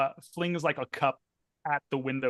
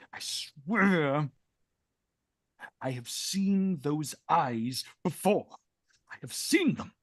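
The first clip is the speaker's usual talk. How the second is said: louder, pressing, rising obsession; agitated insistence; 2 semitones higher, 4 dB louder than usual. Acted. Lord insists to Philomena he has seen the girl, agitated. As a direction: insist feverishly you've seen her.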